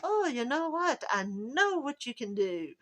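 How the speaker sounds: high, lilting mock Irish accent; bad Irish accent. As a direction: put on a hammed-up Irish accent. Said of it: "I'm sorry for the accent".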